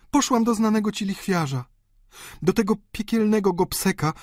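a wife confessing her ruin to her father; countess, anguished. Acted.

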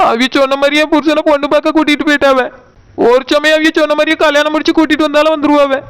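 mild tearful complaint. Acted. Wife telling aunt her husband went bride-viewing, tearful. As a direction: tell the aunt through light tears. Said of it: "நீ எதுக்கு அழுதுகிட்டு இருக்க?".

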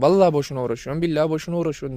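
rattled off fast, swearing it to himself; quick, exasperated self-scolding; fast insistent self-talk. Retold or imitated. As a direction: rush the oath like scolding yourself. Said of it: "diyorum ya kendi kendime".

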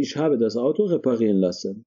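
slow, careful model of "ich habe das Auto reparieren lassen"; correct model sentence. Shown as a demonstration. Teacher models the correct German sentence slowly for students.

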